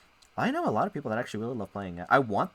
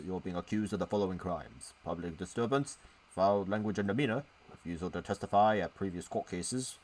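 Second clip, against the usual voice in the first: put-on old British accent. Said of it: "I'm gonna speak in a old British accent".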